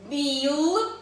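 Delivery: "Білка" split in two long syllables with a big gap; reading by syllables. Shown as a demonstration. Teacher reading the word with children, slowly by syllables. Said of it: "І читаємо".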